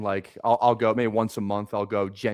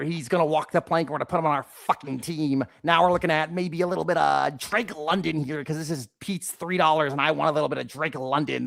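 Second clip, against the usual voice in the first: lightly voiced pirate talking draft picks; 3 semitones higher than usual. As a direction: play a tiny cartoon mouse pirate. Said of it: "Why do you sound like a pirate who's four inches tall?".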